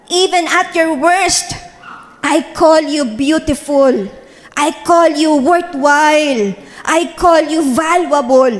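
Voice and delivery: slow, tender and reassuring; slow it right down, gently reassure her; tender voice of God. Retold or imitated. God gently reassuring the pastor of His love, slow and tender. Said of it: "ang sabi sa akin ng God".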